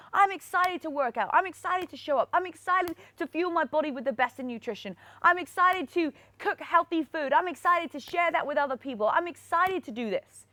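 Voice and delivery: upbeat self-talk, a touch brighter; excited affirmations. Shown as a demonstration. Coach models excited affirmations for viewers. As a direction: chant each line like you mean it. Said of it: "So keep being excited".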